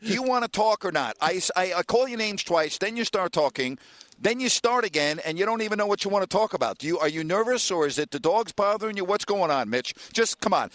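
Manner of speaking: high, impatient badgering; exasperated scolding. Real, not acted. Host berates caller who can't start talking, exasperated. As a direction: press the caller for an answer, exasperated.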